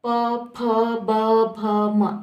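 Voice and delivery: प फ ब भ म slowly, both lips closing; lip-sound demo. Shown as a demonstration. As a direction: sound out प to म one by one. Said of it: "दोनों लिप्स". (प वर्ग, दोनों होंठ मिलाकर)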